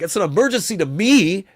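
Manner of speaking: barely holding back anger at the guy; almost flipping out. Retold or imitated. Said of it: "almost wanna flip out on the guy".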